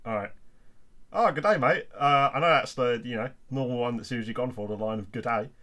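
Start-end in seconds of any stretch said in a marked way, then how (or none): 1.1-5.5 put-on Australian accent. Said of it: "an Australian twang there".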